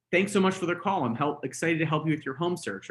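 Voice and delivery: bright, upbeat phone greeting; eager welcome to a caller; energetic greeting. Shown as a demonstration. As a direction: sound like you're smiling on the phone. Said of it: "Make sure you're smiling on the phone".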